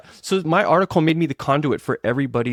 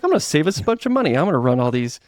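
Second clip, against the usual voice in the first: eager boast; 3 semitones higher, faster than usual. Retold or imitated. Dad plans summer camps.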